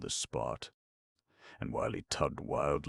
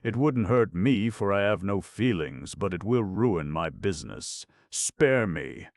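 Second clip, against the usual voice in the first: higher, louder imploring plea; pleading cry; 5 semitones higher, 5 dB louder than usual. Acted. Carter begging the Pasha on the balcony, imploring cry. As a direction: beg the Pasha for mercy. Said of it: "he cried".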